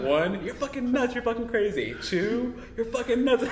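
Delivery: hammed-up wife protesting over a countdown; mock protest. Acts counting husband and protesting wife.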